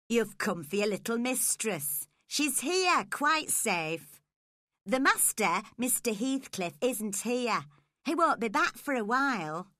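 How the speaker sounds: a touch of a brisk servant woman; housekeeper Zillah. Acted. Housekeeper reassuring the visitor, lightly voiced.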